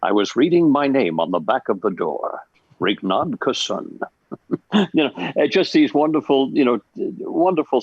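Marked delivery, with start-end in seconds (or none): 0.0-4.0 put-on stylized old-time radio drama delivery; forties radio drama. Shown as a demonstration. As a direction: intone it like a forties radio actor. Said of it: "that wonderful forties radio drama".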